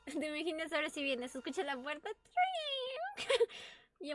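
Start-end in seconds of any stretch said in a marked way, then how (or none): 2.4-3.8 high, trilled door sound effect; imitated door noise. Player imagining the door as the monster comes, mock door noise.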